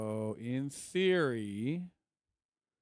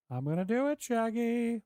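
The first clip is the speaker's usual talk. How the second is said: high cartoon dog voice, higher on Shaggy; goofy cartoon dog cheering itself on; 11 semitones higher, 4 dB louder than usual.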